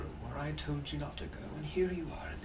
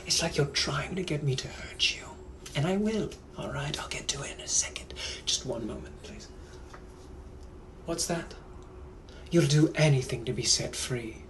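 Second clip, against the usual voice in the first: louder, cold British captor; British gentleman; 4 dB louder than usual. Acted. Kidnapper to his pleading captive, menacing British accent. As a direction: Victorian British villain toying with his captive. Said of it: "I'm also a British gentleman from the eighteen hundreds".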